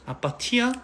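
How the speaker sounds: high teasing question; teasing daughter. Pretend. Daughter teasing her father about being cold, high and playful. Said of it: "이러면".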